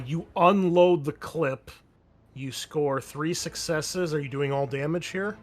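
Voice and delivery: ordinary talk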